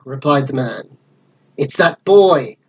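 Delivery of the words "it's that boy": villain's cry. Acted. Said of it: "cried Blind Pew".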